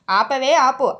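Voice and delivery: cutting her off. Acted. Husband cuts off wife's drama.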